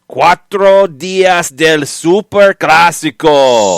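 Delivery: booming hyped announcer, drawn out; monster truck voice. Pretend. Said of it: "I don't think they do the monster truck voice in Argentina".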